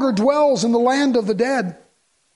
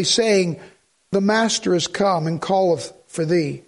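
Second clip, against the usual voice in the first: scripture reading; 3 semitones lower than usual. Acted. Reads scripture aloud.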